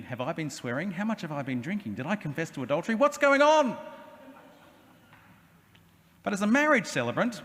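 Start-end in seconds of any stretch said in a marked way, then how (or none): 0.0-3.8 panicked inner thoughts. Retold or imitated. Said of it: "You can see them thinking".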